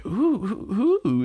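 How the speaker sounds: high-pitched mock prying; nosy eager Iris. Iris begs to know Erica's crush, mock eager high voice. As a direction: pester in a high, teasing imitation. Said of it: "Iris is sitting there like".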